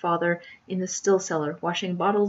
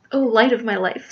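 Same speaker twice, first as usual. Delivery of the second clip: higher, louder melodramatic lover; ardent suitor; 4 semitones higher, 6 dB louder than usual. Acted. Jack declares his love to Ermengarde, ardently. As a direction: proclaim it like a smitten hero.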